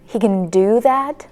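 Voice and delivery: "can" weakened to "kn", stress falls later; unstressed "can". Shown as a demonstration. Teacher gives an example statement, weak "can". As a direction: slip past "can" onto "do that". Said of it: "They don't emphasize it".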